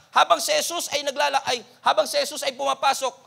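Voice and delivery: ordinary delivery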